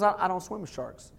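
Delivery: hesitant, softening refusal in a retelling; mock reluctance. Imitating reluctant man refusing sharks.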